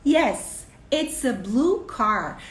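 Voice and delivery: slow, clear parent English; modeling to a child. Shown as a demonstration. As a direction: spell it out slowly for a small child.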